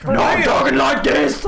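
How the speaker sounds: high shouted fine-lady voice; man doing a woman's voice. Acted. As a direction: ham up a fancy lady. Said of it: "that's what a fine lady sounds like".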